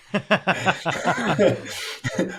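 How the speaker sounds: bursts out laughing high; a real amused laugh at himself. Real, not acted. Laughing at his own slip.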